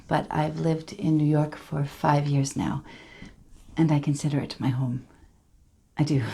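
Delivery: lightly voiced survivor, measured and halting; Tanya Head. Survivor introducing herself to a support group, hesitant and understated. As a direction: tell it gently, with careful pauses.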